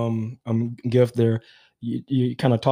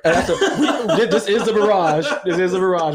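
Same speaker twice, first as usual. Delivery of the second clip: laughing; 4 semitones higher than usual. Real, not acted. Laughing while pouring drinks.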